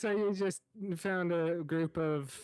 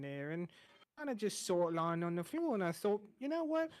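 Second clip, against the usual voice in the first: friendly rambling cook voice, a little higher; chatty chef; 3 semitones higher than usual. Acted. GM as chef reassuring the newcomer, friendly and rambling. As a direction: play the easygoing tavern cook. Chef explains finding the symbol.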